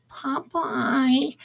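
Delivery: high cartoon lady calling out; drawn-out, high put-on cartoon voice; Olive Oyl. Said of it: "Olive Oyl would talk like this".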